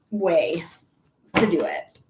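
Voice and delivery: talking through hiccups; hiccuping mid-sentence. Real, not acted. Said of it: "I wish these hiccups would go away".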